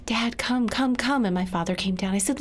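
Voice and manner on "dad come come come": calling out. Acted. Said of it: "I yelled".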